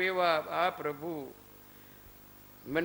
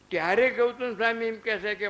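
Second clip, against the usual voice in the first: ordinary delivery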